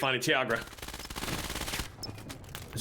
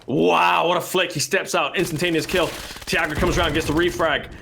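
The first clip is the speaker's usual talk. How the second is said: excited play-by-play; 5 semitones higher than usual. Real, not acted. Live play-by-play of a kill.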